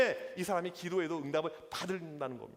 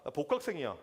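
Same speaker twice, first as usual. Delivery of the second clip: retold angry demand; 3 semitones lower than usual. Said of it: "무척 화가 났습니다".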